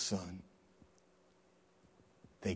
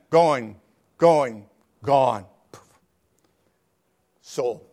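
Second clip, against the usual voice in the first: auctioneer; 11 dB louder, much slower than usual. Acted. Auctioneer closing the sale.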